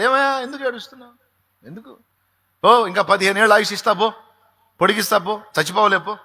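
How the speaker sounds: high, fast, loud voice of God consoling the weeping king; God voiced by the preacher, pitched high; God's voice. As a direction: answer him at once, urgent and comforting. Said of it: "వెంటనే స్పందించాడు".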